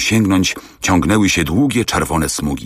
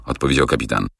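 plain reading voice

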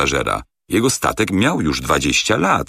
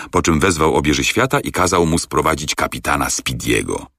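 ordinary delivery, nothing marked

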